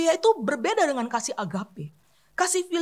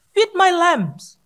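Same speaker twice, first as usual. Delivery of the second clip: Feed my lambs drawn out very slowly, louder; slow emphatic; 3 semitones higher, 6 dB louder, much slower than usual. Shown as a demonstration. Preacher slowly stressing Jesus' words to the church. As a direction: lay each word down slowly.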